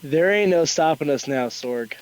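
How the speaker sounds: put-on a rough, hammy Brooklyn accent. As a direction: street vendor hawking in Brooklyn accent. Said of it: "That's my horrible Brooklyn accent".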